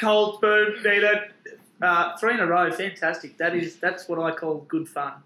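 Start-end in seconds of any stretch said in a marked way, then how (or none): 0.0-1.2 repeated slow and louder; slow cheeky drawl. Acted. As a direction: drag each word out. Repeated joke.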